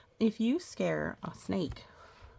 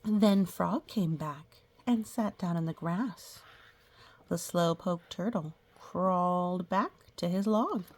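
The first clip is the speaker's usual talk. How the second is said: slow, drawn-out storybook reading; reading to children. Acted. Teacher reading a picture book to the class, storybook voice. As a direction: read it like a picture book for little kids.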